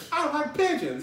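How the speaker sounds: high-pitched eccentric outburst; hammed-up, high holler; mock crazed shout. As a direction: call it out like an oddball on the train. Acting out the same eccentric again.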